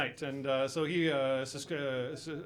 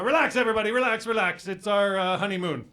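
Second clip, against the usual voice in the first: raised voice addressing the whole pool; public announcement; 2 semitones higher, 5 dB louder than usual. Retold or imitated. Husband addresses everyone at the pool, announcement voice. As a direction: call out to calm a crowd. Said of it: "made an announcement for everybody".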